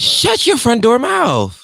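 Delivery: squealed high and slow in mock disbelief; shocked surprise. Real, not acted. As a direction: draw it out, high, loud and stunned. Shocked hosts react to hometown.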